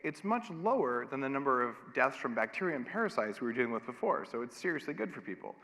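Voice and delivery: hammed-up cheerful authorities; mock smug officials. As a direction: parody pleased bureaucrats. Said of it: "And they said".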